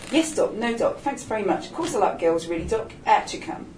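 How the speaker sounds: lightly put-on uncle voice; a hint of a hearty uncle. Lionel mimics talking to the doctor, light uncle voice. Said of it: "put on his uncle voice again".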